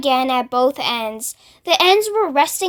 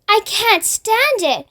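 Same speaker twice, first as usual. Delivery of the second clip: much higher, frantic wail; the worm losing his nerve; panicked wail; 8 semitones higher than usual. A narrator's reading. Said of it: "wailed the earthworm".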